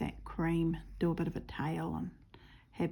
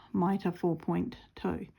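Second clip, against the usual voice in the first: slow, flat whisper of no thrill; sarcastic, unenthused; slower than usual. Real, not acted. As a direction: say it with zero excitement. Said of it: "you can hear the thrill in my voice".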